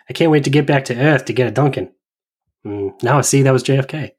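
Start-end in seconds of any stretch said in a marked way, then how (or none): 0.1-1.9 lightly put-on Boston accent; a hint of a New England accent, joking. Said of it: "it's that New England again".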